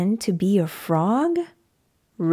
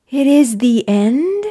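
louder, worried "is the end?"; alarmed question; 2 semitones higher, 5 dB louder than usual. Acted. Gerald mishearing Piggie, alarmed and loud. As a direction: blurt it out in sudden panic.

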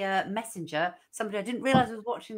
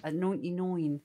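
put-on Essex accent. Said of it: "my best accent".

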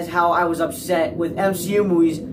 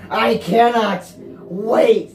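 slow, stretched and louder; drawn-out whine; 7 semitones higher, 4 dB louder, much slower than usual. Real, not acted. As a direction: stretch every word out impatiently. Impatient for trailer.

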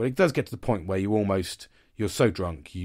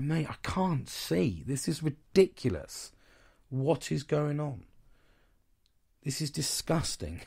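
put-on drunk; 6 semitones higher, slower than usual. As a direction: play yourself wasted on the third can. Retelling being drunk on cider.

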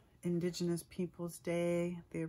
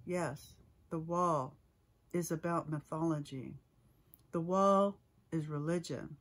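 measured poem recital with weighted pauses; poetry reading. Acted. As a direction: read the poem aloud, phrase by phrase, letting each image land. I'm gonna read from new work.

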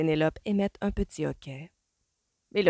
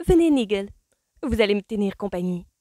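calling along; 5 semitones higher, 6 dB louder than usual. A narrator's reading. Calls her husband to come along.

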